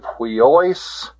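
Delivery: "huiois" ending in a drawn-out OYS; pronunciation demo. Shown as a demonstration. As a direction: model "huiois" slowly. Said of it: "The pronunciation of this".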